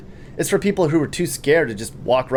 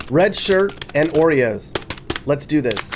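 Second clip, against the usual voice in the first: mock eager reply; 3 semitones higher, slower than usual. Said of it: "I should answer".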